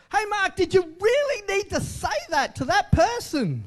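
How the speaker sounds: a gentle rebuke from above, lightly voiced; voice of God. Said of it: "God had to say that to me".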